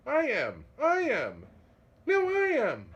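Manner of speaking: high squabbling cat voices; each cat claims it loudly; cats crying out. Acted. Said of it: "cried hundreds".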